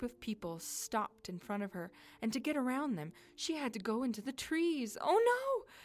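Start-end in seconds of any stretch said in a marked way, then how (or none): 5.0-5.7 high, loud cry of dismay; alarmed. A narrator's reading. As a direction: exclaim it in sudden alarm. Heroine heading into the trees alarmed.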